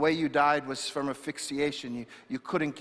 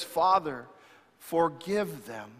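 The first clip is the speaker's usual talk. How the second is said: tender plea; slower than usual. Acted. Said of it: "this is what he says".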